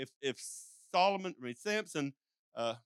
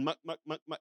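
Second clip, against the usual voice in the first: shepherd's call; 4 semitones lower, 5 dB quieter than usual. Retold or imitated. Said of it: "the shepherd's saying".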